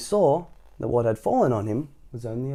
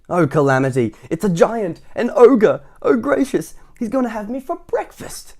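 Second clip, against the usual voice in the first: high, loud panicked squeal; 10 semitones higher, 7 dB louder than usual. A narrator's reading. Mister Jelly squeals in panic at the giant, high and loud.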